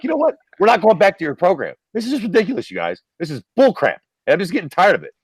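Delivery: high-pitched exasperated weatherman rant; going ham. Retold or imitated. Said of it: "just goes ham".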